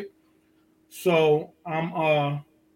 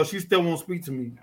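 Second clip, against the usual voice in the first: usual speaking voice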